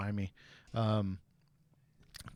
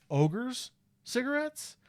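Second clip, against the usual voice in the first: much higher, slow drawn-out disbelief; incredulous; 13 semitones higher, slower than usual. Retold or imitated. Teen realizing dad smashed a friend's pack, drawn-out disbelief. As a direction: stretch it out, stunned.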